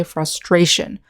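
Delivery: "frustration" with stress on STRA; second-syllable stress. Shown as a demonstration. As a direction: say "frustration" as frus-TRA-tion, leaning on the middle. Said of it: "syllable stress on the second syllable".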